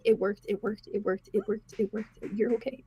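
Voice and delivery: soft, breathless relief; hushed relief. Acted. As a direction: whisper it like a prayer answered. Whit whispers while kissing Silas.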